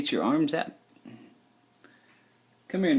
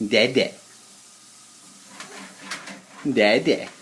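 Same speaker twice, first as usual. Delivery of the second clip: modelling a word; 3 semitones lower than usual. Shown as a demonstration.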